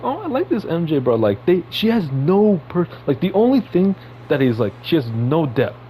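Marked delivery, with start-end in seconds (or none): 0.0-1.1 mock fan voice. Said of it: "people are like".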